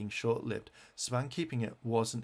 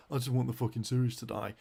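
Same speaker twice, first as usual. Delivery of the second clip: mocking fan quote; faster than usual. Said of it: "if a fan turns around and says".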